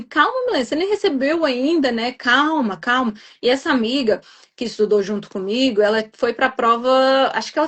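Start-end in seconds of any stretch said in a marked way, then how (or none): 0.0-3.1 reassuring friend. Retold or imitated. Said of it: "ela só ficava assim".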